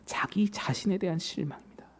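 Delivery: hushed preacher's whisper. Real, not acted. Preacher names Peter's disappointment with himself, whispering. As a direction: drop to a whisper for the point. Sermon climax dropped to whisper.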